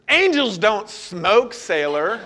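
slow, drawn-out mock correction; child putting a sibling right, stretched out; correcting his sister. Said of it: "of course, corrects the".

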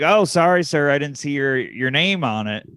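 politely barbed retelling; lightly voiced sugar-coated jab; passive-aggressive polite. Woman who cut the line apologises to the man, passive-aggressive polite. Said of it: "that passive aggressive polite".

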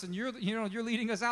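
high, eager retelling of the people's joy; mock cheering. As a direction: play up their naive excitement. People cheering God's deliverance.

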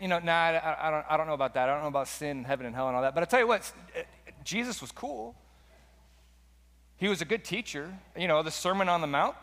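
a breezy doubter brushing Jesus off; skeptic's voice. Retold or imitated. Preacher mocking a skeptic dismissing Jesus, lightly voiced casual. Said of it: "They go".

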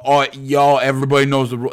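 lightly hammed-up Boston accent; bad Boston accent. Podcaster mocking a pizza reviewer's catchphrase, bad Boston accent. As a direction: attempt a Boston accent, badly. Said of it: "That's a really bad Boston accent".

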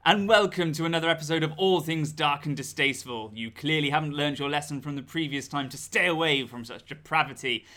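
theatrical horror host voice. Acted. Spooky horror host intro.

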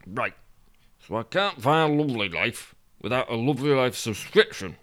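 tag. Acted. Character grumbles to himself.

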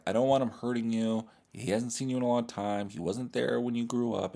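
lightly voiced protective uncle; toned-down impression of a concerned uncle; Uncle Phil. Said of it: "I don't know what the Uncle Phil voice".

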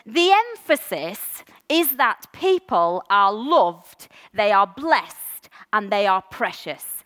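each blessing given its own beat; emphasis on loved, blessed, precious. Shown as a demonstration. Pastor stressing to the congregation that people are loved, blessed, precious. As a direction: lean on "loved", "blessed" and "precious" with slow, deliberate weight. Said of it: "the wrong emphasis on the wrong syllable".

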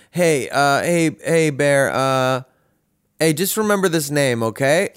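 imitating a hesitant dad on the phone; halting retold phone voice, lightly put on; dad's late-night call. Dad calls child in the middle of the night, hesitant imitation. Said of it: "I got a call from him".

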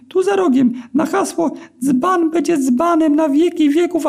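very high, thin and squeaky, slowed down; squeaky eel begging for mercy. A narrator's reading. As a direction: plead in a tiny squeaky eel voice. Eel giving instructions.

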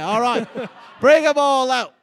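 laughing host calls everyone out; laughing shout. Acted. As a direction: call it out, laughing. Calling out the stereotypes.

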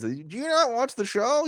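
high-pitched imitation of a wrestler's voice; Evil Uno impression. Podcast host mimicking Evil Uno's line, high-pitched imitation. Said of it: "almost like that exact voice".

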